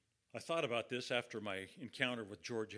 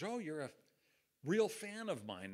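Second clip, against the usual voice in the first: A singer; 5 semitones higher than usual. Retold or imitated. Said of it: "That's how he said it".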